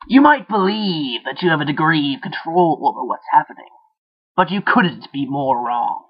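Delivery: sly, taunting little voice; mock him from inside his head; nasty inner voice.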